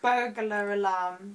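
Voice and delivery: "burglar" drawn out with an extra syllable. Shown as a demonstration. Host repeating the teased words, "burglar" stretched by a syllable. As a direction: slowly add a syllable inside "burglar alarm". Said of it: "the extra syllable you put into the last word".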